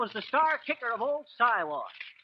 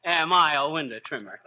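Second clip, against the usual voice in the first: laughing; 6 semitones lower than usual. Real, not acted. Echoes question while laughing.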